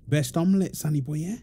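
mild cooing parent voice; baby talk. Acted. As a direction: coo gently at your son over his food.

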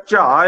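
ਝਾਅ as cha on a low tone. Shown as a demonstration. Teacher explaining cha plus low tone, low-tone ਝਾਅ. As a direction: dip the pitch on ਝਾਅ, no voiced jh. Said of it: "ਤੇ ਸੁਰ ਨੀਵੀਂ ਆ".

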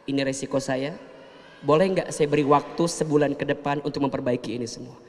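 humble calm reply to a creditor; calm quiet talk. Shown as a demonstration. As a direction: settle the voice and speak gently. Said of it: "Jadi lebih tenang bicaranya".

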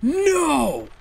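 high, loud, drawn-out outcry; dismayed shout. Real, not acted. Shouting in disbelief at losing her boat. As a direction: cry out in disbelief.

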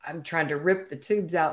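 ordinary delivery

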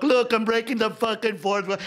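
hammed-up pompous actor, slow and loud; mocking actor. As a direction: sneer at a showoff actor, drawn out. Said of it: "And they walk".

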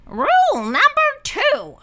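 high bossy teacher voice; instructing. A narrator's reading. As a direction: instruct the little monsters. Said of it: "the yellow one instructed".

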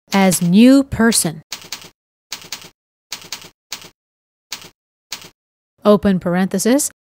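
reading code aloud word by word, with long pauses; dictating. Shown as a demonstration. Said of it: "let's write some code for our form".

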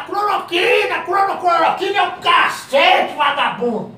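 high hammed-up shout at the chloroquine; mock yell. Virus in the machine cursing chloroquine, mock high shout. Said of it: "E ele gritando lá".

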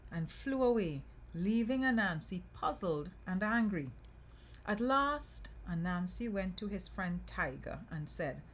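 measured, lilting storyteller voice; story narration. A narrator's reading. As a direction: read a folk tale aloud. Reads folk tale aloud.

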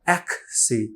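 একসি said as ekhsi with a hard puff on the k; over-aspirated. Shown as a demonstration. Teacher demonstrates his old overdone aspiration. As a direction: overdo the air burst in একসি. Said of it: "অ্যাক্সিডেন্টকে বলতাম একসি".

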